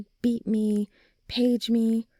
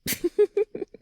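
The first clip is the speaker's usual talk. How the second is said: bright laugh jumping much higher; 12 semitones higher, 4 dB louder than usual. Acted. Friend laughing about being the light of the party. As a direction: burst out laughing at the tease.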